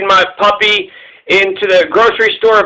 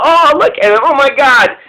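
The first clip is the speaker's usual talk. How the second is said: lightly raised, gushing coo over a puppy; 5 semitones higher than usual. Retold or imitated. Strangers in the store gushing over the puppy, mild coo.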